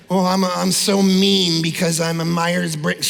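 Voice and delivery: a put-on whiny excuse voice; mock whiny excuse. Preacher mocking congregants' test excuses, in a whiny put-on voice. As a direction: parody someone hiding behind a personality test. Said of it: "Don't give me your disc test or your Myers-Briggs".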